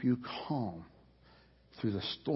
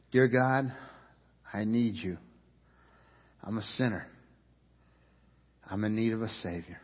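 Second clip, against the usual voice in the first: model prayer. Shown as a demonstration. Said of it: "pray something like this".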